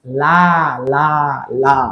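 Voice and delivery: লা with a light, thin L and open a; light la sound. Shown as a demonstration. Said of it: "লাম খানা জবর".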